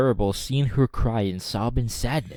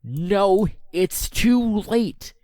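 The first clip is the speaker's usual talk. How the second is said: Riku voice; 9 semitones higher, much slower than usual. A narrator's reading. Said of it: "Riku said".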